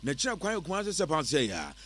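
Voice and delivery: animated live-read sales pitch; radio ad read. Acted. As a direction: pitch it to listeners in a lively radio voice.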